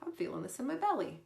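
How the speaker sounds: high, airy self-aware voice; lightly hammed-up calm check-in; mock mindful noticing. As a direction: play it like a calm meditator. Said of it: "I go".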